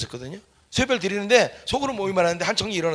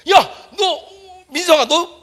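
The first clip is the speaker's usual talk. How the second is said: laughing call; 13 semitones higher, 6 dB louder, slower than usual. Retold or imitated. Teachers react to red jacket.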